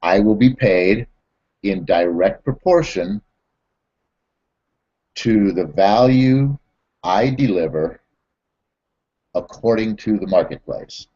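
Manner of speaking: spaced out with pauses, value lifted; slow, deliberate recitation. Shown as a demonstration. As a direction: recite the law slowly, word by word. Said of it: "The law of success states that".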